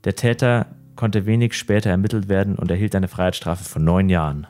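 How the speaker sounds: measured, even crime-story reading; story narration. A narrator's reading. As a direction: read the dark tale steadily, like a true-crime narrator. Reads a crime story aloud.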